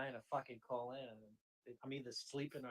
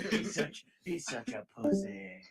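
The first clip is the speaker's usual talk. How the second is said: laughing jeer; 5 semitones higher, 9 dB louder, slower than usual. Real, not acted. Mocking the disliked man while laughing.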